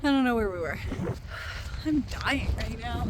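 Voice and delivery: breathless and panting; gasping between words; out of breath. Real, not acted. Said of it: "out of breath".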